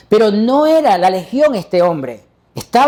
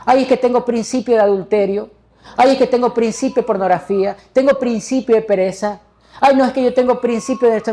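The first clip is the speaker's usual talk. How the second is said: mock whining; 2 semitones higher than usual. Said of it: "Uno no puede quedarse llorando".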